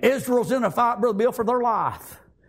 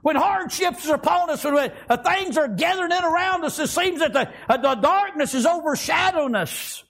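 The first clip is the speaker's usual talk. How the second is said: fervent preaching; 6 semitones higher than usual. Real, not acted. Preaching at full force.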